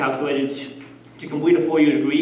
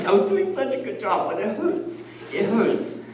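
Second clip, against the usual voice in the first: high, softening whine of pain; mock whining; 6 semitones higher, 4 dB quieter than usual. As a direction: whimper it in a high voice, playing hurt. Acts out pained self.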